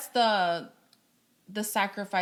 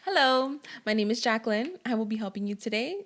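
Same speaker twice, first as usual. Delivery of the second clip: lightly bright, polite phone greeting; a hint of professional phone agent; customer service voice; 2 semitones higher than usual. Shown as a demonstration. Guest to host, trying a customer service voice. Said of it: "your best adult customer service voice".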